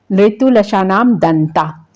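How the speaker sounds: very slow, stretched recitation of the rule; teacher reciting a Sanskrit sutra. Shown as a demonstration. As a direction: draw each word out for memorising. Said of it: "next है आपका".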